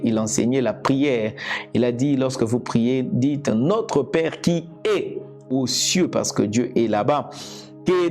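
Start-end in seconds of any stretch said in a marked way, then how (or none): none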